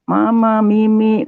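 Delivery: put-on high, drawn child's call; small child calling. Healed child calling to mother, imitated high plea. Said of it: "Langsung itu anak".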